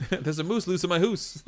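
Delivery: slow, high, hammed-up Canadian "oo" sounds; Canadian accent. Streamer building on the moose joke, slow exaggerated Canadian accent. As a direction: relish the rhyme in mock-Canadian. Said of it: "still certain words, like, out and about".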